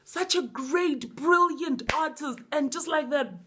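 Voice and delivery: high-pitched, repetitive lament; impassioned rant. Real, not acted. Fan lamenting a singer's death, ranting. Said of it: "Random rant".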